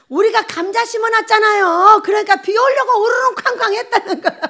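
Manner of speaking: high, loud and giggling through the words; laughing child's delight. Retold or imitated. Preacher to congregation, retelling a child's joy, laughing and high.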